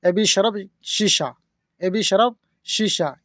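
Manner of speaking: एबी शरब शीशा said slowly, word by word; slow teaching demo. Shown as a demonstration. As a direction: spell the phrase out for students. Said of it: "तो इसको अरबी बोलेंगे". (धीरे धीरे सिखाते हुए)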